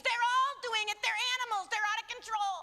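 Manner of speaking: high, mocking voice of the media; hammed-up media scorn about teens. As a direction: sneer it like a scornful pundit. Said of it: "the lie the media has told".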